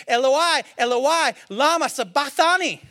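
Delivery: loud anguished cry, pitched high; loud anguished cry to God. Acted. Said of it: "he cries out".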